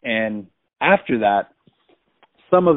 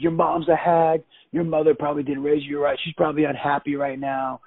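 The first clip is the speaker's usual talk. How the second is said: higher-pitched taunting retort; imitated angry woman; 5 semitones higher than usual. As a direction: mimic her spiteful comeback. Woman's retort in acted quarrel.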